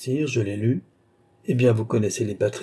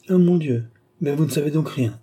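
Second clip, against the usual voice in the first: higher, exasperated outburst; 4 semitones higher than usual. Acted. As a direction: exclaim in royal exasperation. King exasperated by duke's ignorance.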